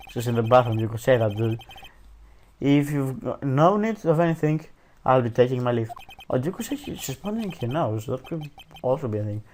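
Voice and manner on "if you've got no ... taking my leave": bad British accent. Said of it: "I do the worst British accent".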